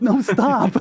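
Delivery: high, loud no stop; high yelled plea to stop; imitated shout. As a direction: cry out to stop her, laughing. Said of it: "and I'm like".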